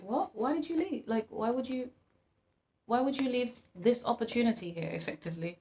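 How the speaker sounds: mildly baffled, questioning why; flabbergasted. Acted. Person watching you walk out the door, mildly flabbergasted. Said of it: "looking at you kind of flabbergasted".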